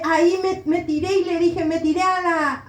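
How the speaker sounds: normal talking voice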